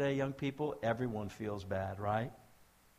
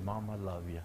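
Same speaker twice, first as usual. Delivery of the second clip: low, soft, tender answer; gentle reply; 5 semitones lower, 4 dB quieter than usual. Retold or imitated. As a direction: son quietly forgiving his mother. Son's gentle reply after being spat on.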